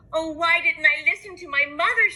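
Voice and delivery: put-on little girl scolding herself; high girl lament; regretful girl. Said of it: "she thought".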